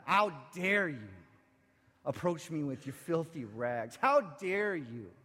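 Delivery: slow, drawn-out mock reproach; scolding oppressive voice. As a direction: stretch out the condemnation, letting it sink down. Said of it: "Do you hear that".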